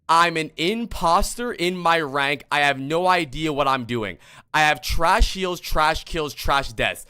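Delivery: mocking voice of James. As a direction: parrot his words back in a mock whine. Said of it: "when did I ever make this voice".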